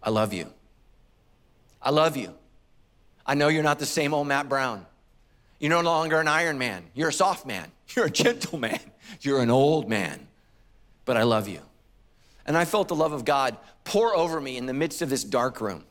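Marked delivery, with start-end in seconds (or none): 0.0-11.6 lower, tender voice of the shepherd; God reassuring an aging man. Retold or imitated. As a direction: speak gently as a loving shepherd. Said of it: "the shepherd just said".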